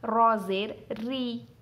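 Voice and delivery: slow, light thin री with zer. Shown as a demonstration. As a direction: read रॉ जेर री fine and drawn out. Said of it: "एक बार पढ़ लेते हैं". (बारीक री, धीरे से)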